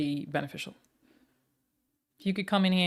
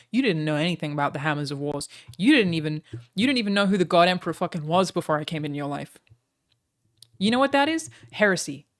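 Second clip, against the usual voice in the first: mock rant; 5 dB louder than usual. Mock rant at chatter about Warhammer.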